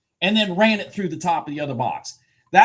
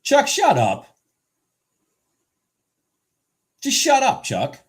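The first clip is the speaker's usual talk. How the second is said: mock yell; 7 semitones higher, 5 dB louder than usual. Real, not acted. Yelling at someone named Chuck.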